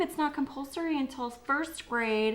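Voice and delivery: high, singsong reassuring quote; mock reassurance. Quotes group reassuring worried parents.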